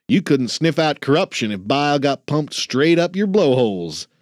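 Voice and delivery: lightly voiced cranky old man; grumpy old janitor. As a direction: needle the rookie like a crusty veteran. Ben scolding trainee.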